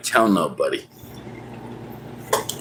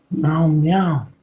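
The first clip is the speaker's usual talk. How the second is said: mock meow; 6 semitones higher than usual. Imitating cat meows.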